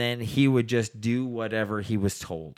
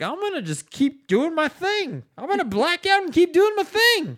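much higher, louder hammed-up roommate; high mock voice; 5 dB louder than usual. Mocking the blackout roommate in a high, cheerful voice. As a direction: play him as a cheerful high cartoon. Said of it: "he's just like".

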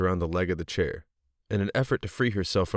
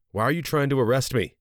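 alarmed protest; 6 semitones higher, 4 dB louder than usual. Acted. Woman resisting arrest on phone.

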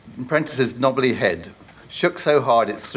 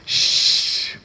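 quick whispered shush; urgent shush. Acted. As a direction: hush him fast. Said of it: "the warlock interrupted quickly".

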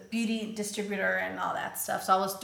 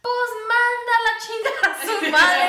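high, loud words broken by laughter; laughing through tears; 12 semitones higher, 9 dB louder than usual. Retold or imitated. Quoting husband's curse, high tearful laugh. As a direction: quote husband while still crying and laughing. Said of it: "He's like".

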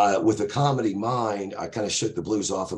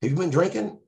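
much higher, repeated pushy questioning; stern cop; 12 semitones higher than usual. Retold or imitated. Cop questions drunk driver, hammed-up pushy interrogation. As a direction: grill him like a suspicious patrolman. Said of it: "He said".

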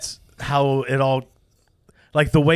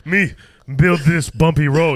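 slow generic Native American caricature; mock Native American accent; 3 dB louder than usual. Friend riffs on the husband, slow mock Native American accent. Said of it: "it sounded like generic Native American".

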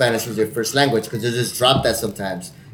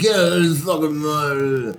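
put-on drunk Irish guy; 2 semitones higher, slower than usual. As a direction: imitate a drunk Irishman running words together. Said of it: "the drunker he got".

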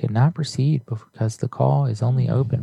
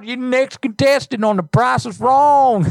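hammed-up redneck twang, higher and louder; redneck accent; 13 semitones higher, 4 dB louder than usual. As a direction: ham up a hillbilly accent. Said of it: "I love your accent".

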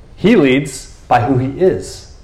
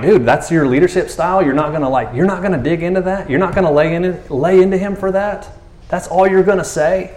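higher-pitched disbelieving questions; playful, baffled protest; mock incredulous; 5 semitones higher than usual. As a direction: challenge a friend who let it slide. Acts out questioning Jesus's mild response.

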